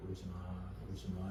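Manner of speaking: very soft, low hushing comfort; soothing. Acted. Wise parent to crying child, soft soothing. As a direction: pat a crying child calm with your voice. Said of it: "이렇게 다듬어줘요".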